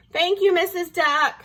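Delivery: high, sweet thanks; grateful. A narrator's reading. Wolf thanks his hostess, grateful.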